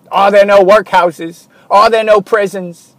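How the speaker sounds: lightly voiced old miser scoffing; imitating Scrooge. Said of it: "Ebenezer Scrooge".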